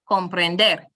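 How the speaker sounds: comprender stressed on final DER, low voice; stress on last syllable. Shown as a demonstration. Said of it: "we place it on the last one".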